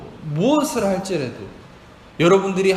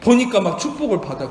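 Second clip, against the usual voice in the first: ordinary talk, nothing marked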